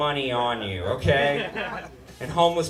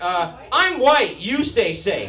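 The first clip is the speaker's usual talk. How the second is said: cocky reply; 2 semitones higher, slower than usual. Retold or imitated. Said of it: "I'm like".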